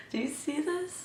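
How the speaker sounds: high laughing question. Real, not acted. Showing off wavy liner, laughing.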